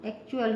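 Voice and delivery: एक्चुअल as "ek-chu-al"; T read as CH. Shown as a demonstration. Teacher giving the last example's pronunciation, एक्चुअल with "ch". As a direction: say एक्चुअल with "ch" after the k. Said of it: "इसका pronunciation".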